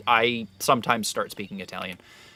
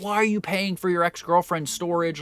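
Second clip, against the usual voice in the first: mock older guy; 7 semitones higher than usual. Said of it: "the guy was like".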